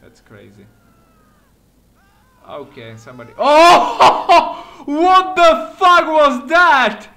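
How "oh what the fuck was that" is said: loud, high burst of shocked laughter; startled laughing outburst. Real, not acted. Gamer startled by a falling body, laughing loudly.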